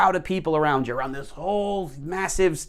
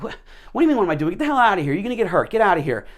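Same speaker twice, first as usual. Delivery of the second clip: grumpy worker; 3 semitones higher, much faster than usual. Retold or imitated. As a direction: chase the kid off like an irritated bricklayer. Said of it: "He's like".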